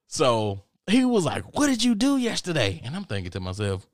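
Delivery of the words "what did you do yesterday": very high-pitched question; acted-out disbelieving roommate; incredulous questioning. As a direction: ask it way up high, baffled. Roommate interrogates him, acted.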